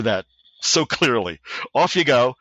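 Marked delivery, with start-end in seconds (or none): 1.8-2.3 British "Off you go" with a touch more push; mild British officer shooing them away; stereotype British accent. Retold or imitated. Sergeant major repeating his dismissal in a light British accent. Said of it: "a stereotype British accent".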